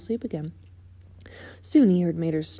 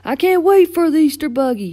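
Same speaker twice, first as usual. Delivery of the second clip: high, loud and eager; can hardly wait, voice lifted high; excited; 9 semitones higher, 9 dB louder than usual. A narrator's reading. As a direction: burst out with childlike anticipation. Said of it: "no one was more excited about Easter".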